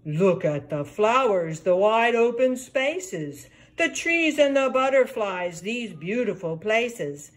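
hint of a happy frog. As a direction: lightly croak it like a contented frog. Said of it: "Mister Frog".

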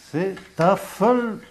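"Tafelbier" said high and stressed, the Flemish way; Flemish word. Shown as a demonstration. Teacher citing the Flemish word for table beer, stressed.

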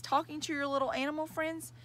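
high mocking question; teasing. A narrator's reading. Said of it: "she teased".

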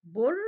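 "بر" pushed out loud, ر leaned on; loud teacher's demo of "بر", final ر pressed; pushed syllable. Shown as a demonstration. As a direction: give "بر" a loud shove into the ر. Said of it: "أكني زقتها كده شوية".

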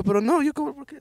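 high, baffled self-defense; baffled protest. Retold or imitated. Student protests to the inspector, high and bewildered. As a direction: sputter out a disbelieving denial.

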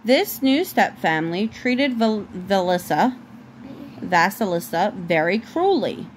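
measured storybook reading, clearly phrased; story narration. A narrator's reading. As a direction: read a fairy tale aloud to a child.

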